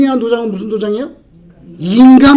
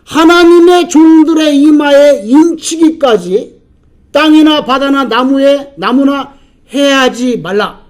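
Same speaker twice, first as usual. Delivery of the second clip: proclaimed angel's cry; 2 semitones higher, slower than usual. Retold or imitated. Angel ordering four angels to hold the winds, retold cry. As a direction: retell the angel's command in drawn-out proclamation. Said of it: "소리를 지릅니다".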